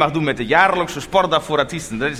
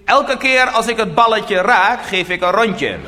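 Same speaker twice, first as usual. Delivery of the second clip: slow, higher-pitched mock announcement; retold boast called out; 4 semitones higher, slower than usual. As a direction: imitate a brother proclaiming his offer. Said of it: "Mijn broer riep".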